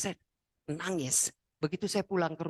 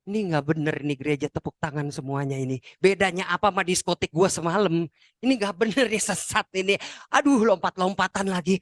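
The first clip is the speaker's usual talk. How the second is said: mock criticism. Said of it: "saya yang kritik terus".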